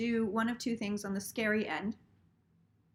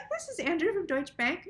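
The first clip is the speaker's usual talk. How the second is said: giggling at the absurd call; laughing repeat; 6 semitones higher than usual. Retold or imitated. Retelling the banker's greeting to viewers, laughing.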